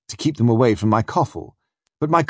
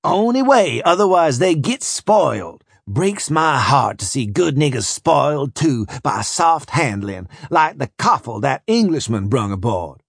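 coarse overseer; 3 semitones higher than usual. Acted. Overseer voiced, gossiping.

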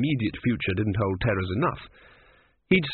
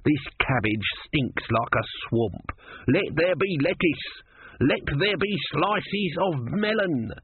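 higher, drawn-out divine commands, mock-grand; demanding tortoise god; 6 semitones higher, slower than usual. A narrator's reading. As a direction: proclaim like a god ordering a feast, slowly.

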